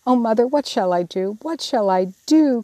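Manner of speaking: a mild cry of helplessness; despair. Acted. Jo begging Mother for help, mild despairing plea. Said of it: "cried poor Jo in despair".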